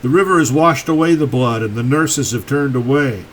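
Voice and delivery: deliberate poetry recital, pausing after each line; poem reading. Acted. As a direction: read it as verse, lines set apart. Reads own poem aloud.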